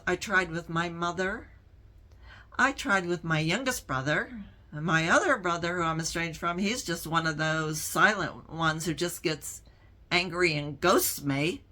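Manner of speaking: usual speaking voice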